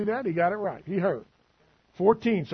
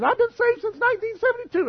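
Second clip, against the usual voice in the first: mock pious claim. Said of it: "Somebody comes to you and says".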